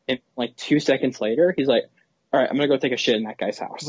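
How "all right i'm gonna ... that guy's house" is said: imitating his quick throwaway exit line; quick offhand line. Retelling the character's line two seconds after the heartfelt speech, quick and offhand. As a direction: say it fast and casual, as his abrupt switch. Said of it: "It's so quick".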